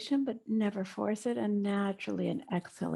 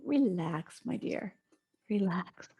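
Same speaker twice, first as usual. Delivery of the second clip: soothing mother. Pretend. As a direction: talk to yourself like a kind mother. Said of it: "like your own mother ... own angel".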